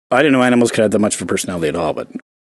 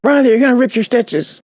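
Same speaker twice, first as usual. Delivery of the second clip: higher, sing-song scolding; mock scolding dog; 11 semitones higher than usual. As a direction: playfully scold the pup.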